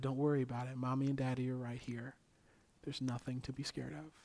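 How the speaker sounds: calm, understated comfort; retold reassurance. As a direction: gently reassure as a parent would. Parents soothing a scared child.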